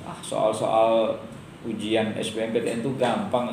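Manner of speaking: mild mock boast, slow; dismissive teacher. Mocking a teacher who calls the exam easy, slow and dismissive. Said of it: "guru yang mengatakan".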